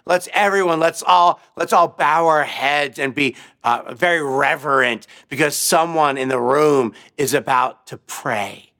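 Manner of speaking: sneering professor mocking prayer; sarcastic. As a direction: professor mocks the student before class, sarcastic. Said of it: "said very sarcastically".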